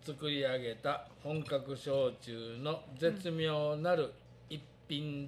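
slow, deliberate label reading; reading aloud. Shown as a demonstration. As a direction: read the label out word by word. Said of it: "ちょっと読んでみようか". (ゆっくり読み上げる)

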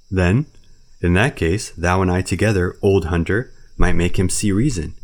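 put-on loud, coaxing old bear. Baloo coaxing Bagheera to come to Kaa, loud bear. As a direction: win over your friend warmly.

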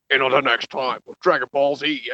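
dramatic anime narrator teaser; shonen narrator voice. Retold or imitated. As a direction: hype up the next episode like an anime narrator. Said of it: "like, a narrator voice".

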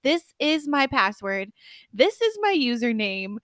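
mock drunken seriousness. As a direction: imitate a drunk concentrating hard on every word. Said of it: "I'm, like, all serious".

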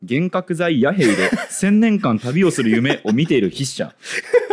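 laughing while reading. Real, not acted. Reading a funny caption aloud.

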